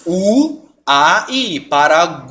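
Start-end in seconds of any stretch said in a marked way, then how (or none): 1.6-2.3 "Paraguai" with the ending stretched into gu-a-i; every vowel sounded. Shown as a demonstration. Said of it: "As três têm sons aqui".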